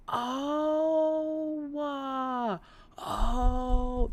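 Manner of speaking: emotional catch in the voice; tearful oh; choked up. Real, not acted. Overwhelmed by viewer's explanation.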